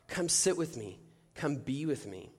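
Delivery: soft, spaced-out invitation; God's gentle voice. Retold or imitated. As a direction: tenderly invite him closer, as God. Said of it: "God was vi".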